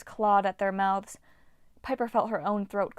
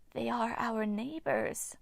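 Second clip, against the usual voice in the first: smiling; 3 semitones higher, 5 dB quieter, slower than usual. Acted. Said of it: "Hagno smiled".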